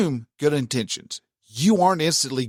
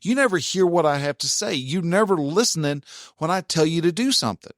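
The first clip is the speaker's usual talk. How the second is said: higher, accusing mock complaint from the wife; lightly voiced nagging wife, pitched up; mock frustrated wife; 4 semitones higher than usual. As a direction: play the exasperated wife listing his failings. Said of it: "if she was to say".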